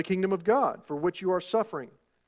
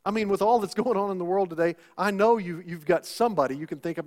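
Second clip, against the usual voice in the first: usual speaking voice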